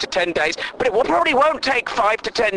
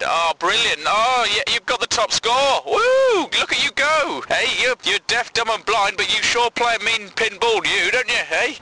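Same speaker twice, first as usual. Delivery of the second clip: mock cheering; 4 semitones higher than usual. Mock cheering at blind kid.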